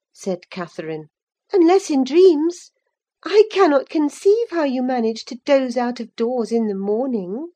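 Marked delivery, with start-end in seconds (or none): 1.5-7.5 put-on higher, brighter girl's voice, eager. A narrator's reading. Cathy talking to Ellen about Linton, lively young voice. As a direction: play the young lady, quick and sure.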